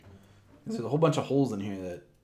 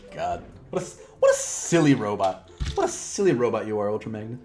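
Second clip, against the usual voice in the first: laughing tease; 2 semitones lower, 5 dB louder than usual. Real, not acted. Teasing the toy robot.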